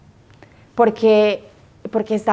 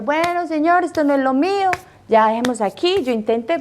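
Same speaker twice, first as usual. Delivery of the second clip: lifted, breezy giving up; mock resignation; 7 semitones higher than usual. Young woman closing the matter with the Lord, lightly pitched resignation. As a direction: tell the Lord lightly it's not for her.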